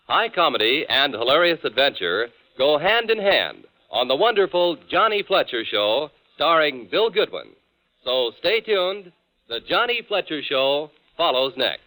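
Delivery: put-on old radio announcer on disc; crackly transcribed radio sound; old broadcast disc. Old radio promo and station ID.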